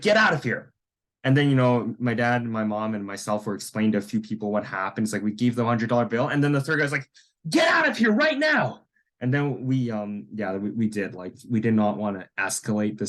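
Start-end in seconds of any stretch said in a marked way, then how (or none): 0.0-0.7 higher-pitched mock dismissal; sharp put-on command; retold angry order. Acting the guy ordering them out. 7.5-8.8 high-pitched, full-on imitated yell; shouted mock eviction, voice way up; angry shout. Acting the third guy throwing them out.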